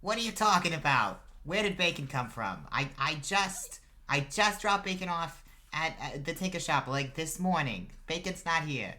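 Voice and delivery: high, loud, exasperated mother; older feminine voice. Acted. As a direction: argue back with your kid across the house. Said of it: "older feminine voice go".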